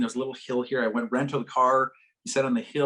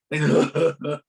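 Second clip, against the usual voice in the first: imitated heaving sob; snotty bawling; 4 dB louder than usual. Speaker showing the bawling student on the swing, snotty sob. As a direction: mimic a child's snot-choked crying. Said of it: "like that".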